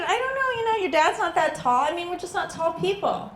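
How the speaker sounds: flustered defence. Retold or imitated. Mother defends herself to son.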